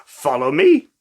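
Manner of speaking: squeaky high loud hello; bunny voice. Acted. Talking bunny greeting a child, high squeak. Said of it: "the bunny said".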